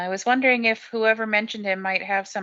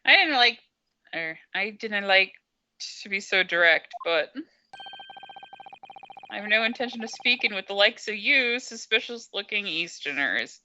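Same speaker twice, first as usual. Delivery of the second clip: Scottish governor. Acted. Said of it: "make him sound like Shrek".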